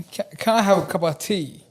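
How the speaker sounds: light mock British accent; a touch of a polite British accent asking for tea. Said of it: "the British accent is fun".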